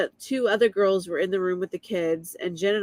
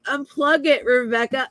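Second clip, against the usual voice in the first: retold urgent yell; 5 semitones higher, 4 dB louder than usual. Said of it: "He's like".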